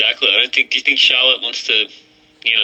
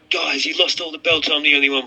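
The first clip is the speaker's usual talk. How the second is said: imitating Adam Cole; 6 semitones higher than usual. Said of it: "and he'll be like".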